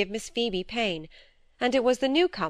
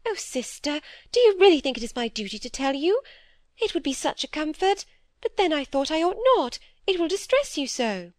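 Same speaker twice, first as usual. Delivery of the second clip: higher, fretful little-sister voice; timid younger sister; 8 semitones higher than usual. Acted. Phoebe fearfully confessing to her sister, higher anxious pleading.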